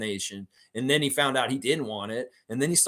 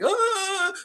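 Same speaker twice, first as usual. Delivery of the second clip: high-pitched "ah" imitating someone; playful high voice noise; imitated vocal noise; 3 dB louder than usual. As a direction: let out a very high mock cry.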